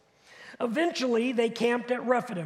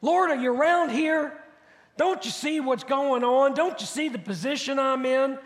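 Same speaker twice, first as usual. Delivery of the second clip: questioning God; 2 semitones higher than usual. Acted. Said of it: "Have you ever asked a question like that?".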